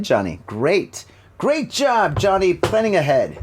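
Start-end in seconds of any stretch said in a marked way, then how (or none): 1.4-3.4 sarcastic self-praise. Real, not acted. Mocking own clumsy setup.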